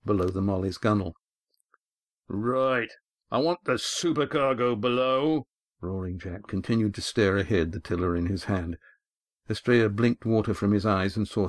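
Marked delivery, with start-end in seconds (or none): 2.3-5.5 lightly voiced stern old skipper; a hint of a weathered sea captain; gruff skipper. A narrator's reading. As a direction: give the order like a hard-bitten captain. Gruff skipper gives an order.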